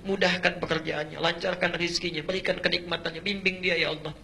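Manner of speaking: a mother begging God quietly at night; mother's tearful prayer. Acted.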